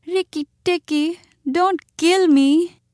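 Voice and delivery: high, tearful pleading; Chuchundar. A narrator's reading. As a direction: drag out the plea as if close to tears. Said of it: "almost weeping".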